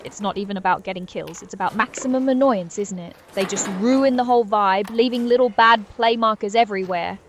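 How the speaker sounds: hyped streamer voice roasting lurkers; Twitch streamer roast. Pretend. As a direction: play it up like a streamer addressing chat. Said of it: "talk like a Twitch streamer".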